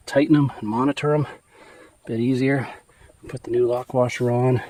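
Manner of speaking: out of breath, panting between words; winded from hard wrenching; gasping for air. Real, not acted. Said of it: "I'm out of breath".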